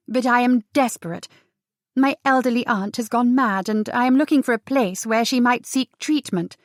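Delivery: put-on well-bred young lady in distress; genteel put-on desperation; genteel miss, pleading. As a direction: plead politely, pitch lifting as you go. Ties poses as desperate niece.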